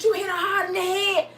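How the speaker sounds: high-pitched, hammed-up amusement; mock laughing disbelief; imitated laughing delivery. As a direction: squeal it as if cracking up. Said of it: "she started laughing".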